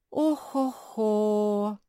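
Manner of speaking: slow, drawn-out sighing groan. A narrator's reading. Shopkeeper sighing over the puppy, slow sigh. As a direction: sigh it long and heavy. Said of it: "вздохнул Бас".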